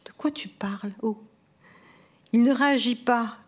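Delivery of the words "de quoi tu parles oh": whisper. Acted. Couple arguing over Eliane.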